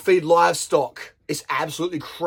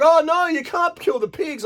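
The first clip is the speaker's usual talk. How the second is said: put-on high, whiny kid's voice, much higher; upset child; 10 semitones higher than usual. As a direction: play the shocked little kid pleading for the pigs. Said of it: "And the kid's like".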